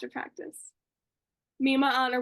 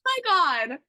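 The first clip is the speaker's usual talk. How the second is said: starstruck gasp; 4 semitones higher, 5 dB louder, much faster than usual. Retold or imitated. Retold starstruck reaction.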